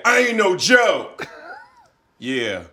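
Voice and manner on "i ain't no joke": slow, loud, laughing swagger; attempt at a rapper. Friend attempting a rapper, loud and laughing. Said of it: "Was that it?".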